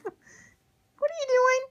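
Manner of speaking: high, loud, long-drawn telling-off; drawn-out exasperated scold. Real, not acted. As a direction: stretch the question out at the naughty pet. Scolding pet biting couch.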